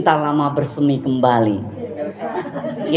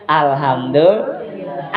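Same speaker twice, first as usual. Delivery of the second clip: grateful sigh; 3 semitones lower, much slower than usual. Retold or imitated. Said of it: "Ada, Bu, gini".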